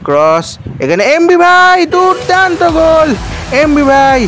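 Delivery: frantic football commentary. Real, not acted. Goal call in live commentary.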